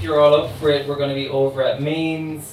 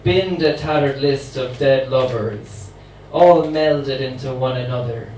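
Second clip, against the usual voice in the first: a light hint of a New Orleans accent; 4 dB louder than usual. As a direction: voice the immortal voodoo queen with a faint New Orleans accent. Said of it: "try and do it in her accent".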